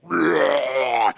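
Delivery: loud demonic blah; monster roar. Retold or imitated. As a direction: roar it like a possessed mom. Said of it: "and she's like".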